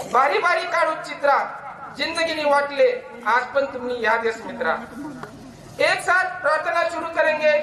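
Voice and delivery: measured, rhythmic verse with each couplet said twice; poem recitation. Acted. Former student recites Ahirani poem at reunion, rhythmic recitation. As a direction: recite fondly to old teachers.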